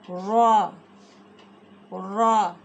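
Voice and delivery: را said heavy and full; thick. Shown as a demonstration. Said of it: "را کو ہم نے موٹا کرنا ہے".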